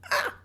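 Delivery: short frustrated "ah!"; tongue-tied yelp of frustration; frustrated outburst. Real, not acted. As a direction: let out a burst of exasperation. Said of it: "I'm getting frustrated".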